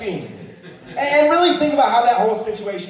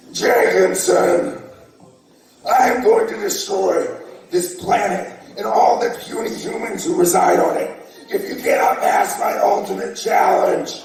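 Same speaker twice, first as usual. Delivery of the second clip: menacing villain voice, drawn out; booming arrogant alien overlord. Pretend. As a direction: threaten like a cartoon overlord. Giant invader threatening couch sitter.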